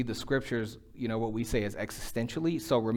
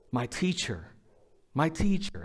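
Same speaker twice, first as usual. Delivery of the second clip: joyful recognition; 4 semitones higher than usual. Retold or imitated. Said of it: "recognizes him and says".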